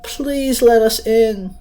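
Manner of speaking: put-on high, slow, sweet little girl voice; soft sweet girl. Little girl luring Sandra with a sweet lullaby tone. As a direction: coax her in like a lullaby. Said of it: "Her voice was soft and sweet".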